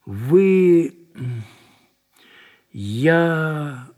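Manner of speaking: drawn-out, hesitant words; very soft. A narrator's reading. Lieutenant falters before the man he detains, gently. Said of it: "сказал Зотов очень мягко".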